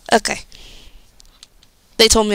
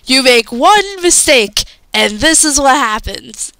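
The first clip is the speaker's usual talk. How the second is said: Logan quote; 3 semitones higher, slower than usual. Retold or imitated. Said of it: "and the Logan goes".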